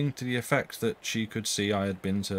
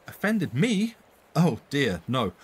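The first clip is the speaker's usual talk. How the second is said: high, loud, startled protest; startled denial; 4 semitones higher, 5 dB louder, slower than usual. Acted. Susan denies Bessie's question, startled and loud. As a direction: brush it off with a jolt of surprise.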